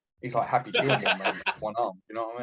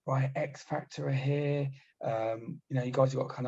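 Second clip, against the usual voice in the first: imitating the RSM; 4 semitones higher than usual. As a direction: drag it out like a bossy officer. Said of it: "she came up and was like".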